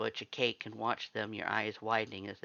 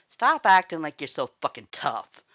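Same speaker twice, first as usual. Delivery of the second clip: much louder, higher snarl; angry shout; 5 semitones higher, 12 dB louder than usual. Acted. Red yells at the visitor to drop the tough act, furious. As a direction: shout her down.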